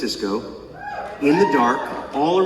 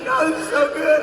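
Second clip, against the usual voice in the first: much higher, swooning; hushed rapture turned high; enthralled; 13 semitones higher than usual. Retold or imitated. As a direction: gush like a new fan. Enthralled at the musical.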